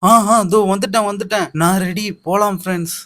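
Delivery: high-pitched "coming, coming" call; hurried arrival call. Acted. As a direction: call out eagerly to waiting friends. Latecomer calls out to waiting friends. (வந்துட்டேன் என்று கூவும் குரல்)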